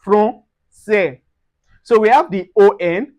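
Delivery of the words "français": "français" slowly with nasal first vowel. Shown as a demonstration. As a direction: say "français" as fron, seh.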